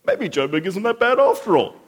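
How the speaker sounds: high, loud panicked whine; preacher mocking Capetonians begging for rain, high loud whine. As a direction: ham up the townsfolk's thirst panic. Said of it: "and it's like".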